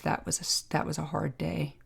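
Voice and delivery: quiet, breaking with emotion; trembling voice. Real, not acted. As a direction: voice trembling as the memory hurts. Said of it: "and my voice tremble".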